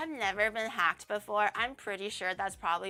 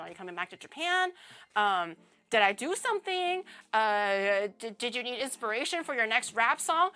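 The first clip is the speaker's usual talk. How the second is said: nervous panicking; 2 semitones higher, 3 dB louder than usual. Retold or imitated. Anxious retold self reading message.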